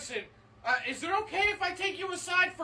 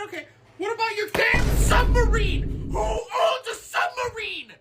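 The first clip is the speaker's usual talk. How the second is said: interrogating tax auditor. Acted. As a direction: grill him like a suspicious tax man. Tax auditor grills the rich player.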